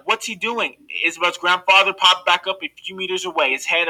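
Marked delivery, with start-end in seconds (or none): 0.0-0.8 alarmed question. A narrator's reading. Mother panicking at jump.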